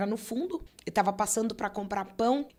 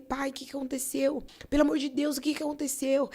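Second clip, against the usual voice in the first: retold desperation; 5 semitones higher than usual. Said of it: "fiquei desesperada".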